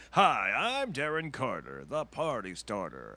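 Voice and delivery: slow hyped emcee intro; party host character. Retold or imitated. Young comic opens in a mock party-host character. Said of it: "I would pretend to be a character".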